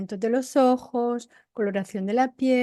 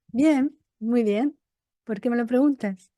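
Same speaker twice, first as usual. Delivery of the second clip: defensive reply. Shown as a demonstration. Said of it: "No es lo mismo que me digas".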